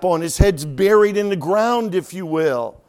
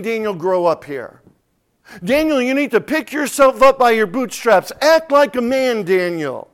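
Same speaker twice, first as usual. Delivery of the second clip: a mock stern rebuke, louder and higher; stern scolding command; 4 semitones higher, 4 dB louder than usual. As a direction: bark it like a drill sergeant telling him to grow up. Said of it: "the angel is not saying this".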